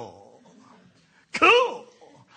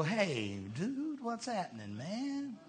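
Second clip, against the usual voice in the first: street talk; 15 dB quieter, slower than usual. Retold or imitated. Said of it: "That's street talk".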